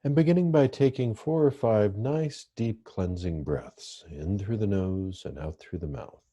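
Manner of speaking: calm, measured meditation guidance with long pauses; guided meditation. Real, not acted. Therapist leading listeners through breathing meditation, calm guided meditation. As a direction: guide listeners gently into the breath, leaving space between phrases.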